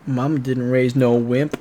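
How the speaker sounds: slow mock-tough boast. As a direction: play it proud, slowly. Tough joke after collapsing.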